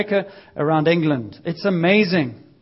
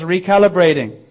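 sat nav voice; 5 dB louder than usual. Retold or imitated. Preacher lightly mimics the GPS voice after a wrong turn. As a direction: intone it lightly like a machine. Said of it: "it goes".

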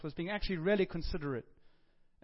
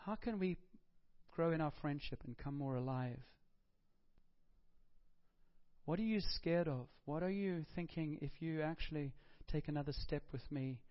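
gentle fatherly voice. Pretend. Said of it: "He's just saying".

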